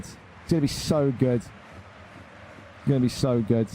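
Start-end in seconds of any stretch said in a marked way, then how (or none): 1.4-3.7 drawn-out, softer, savouring gloat; slow softer gloating drawl. Real, not acted. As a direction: relish every word slowly, quieter. Gloating over rivals' future losses.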